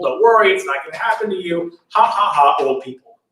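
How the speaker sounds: lightly acted mocking reassurance; making fun. Father's play soothes the prince, making fun. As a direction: brush it off with a spoken mock laugh. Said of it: "kind of making fun of old people".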